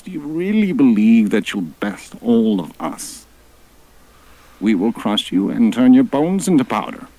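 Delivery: high, loud snarling dinosaur voices; gruff predator threat, fast at times; retorting. Acted. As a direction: sneer down at the little god.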